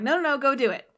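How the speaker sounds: loud, then a fast brush-off; bossy stepmother. Retold or imitated. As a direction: shoo her out the door. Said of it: "the mother's like".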